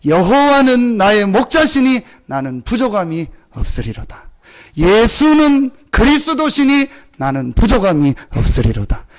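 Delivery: slow, weighty recitation; solemn confession. Acted. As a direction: proclaim it as a psalm. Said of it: "다윗이 고백합니다". (다윗의 고백을 장엄하게 낭송)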